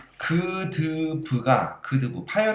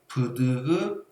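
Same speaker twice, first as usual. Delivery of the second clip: pinching nose; much slower than usual. Shown as a demonstration. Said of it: "다시".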